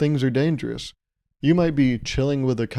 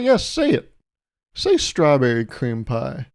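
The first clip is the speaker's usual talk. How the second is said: mock demanding cashier; slower than usual. Cashier demanding the full name.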